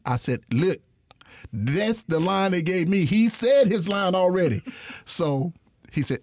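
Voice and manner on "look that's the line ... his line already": high, worked-up complaint; retelling fussing at the director, raised voice. Retold or imitated. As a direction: scold the director, pitched high. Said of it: "that I'm fussing at".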